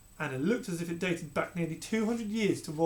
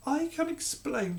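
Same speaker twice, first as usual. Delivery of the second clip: spluttering; 11 semitones higher, slower than usual. A narrator's reading. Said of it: "she spluttered".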